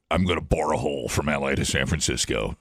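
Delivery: low, lightly put-on digger's voice; put-on company voice. Host jokes as the tunnel company, lightly put-on voice. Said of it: "You gotta say it in that voice".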